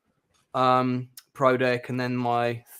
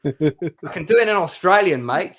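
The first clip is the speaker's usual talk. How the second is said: Australian accent; 4 semitones higher, 5 dB louder than usual. Shown as a demonstration. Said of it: "Wish you had a New Zealand accent".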